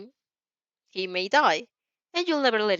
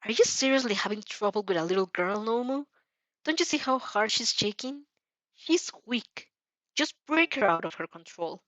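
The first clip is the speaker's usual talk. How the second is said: mocking and cold. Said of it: "sounds mocking and yet terribly cold".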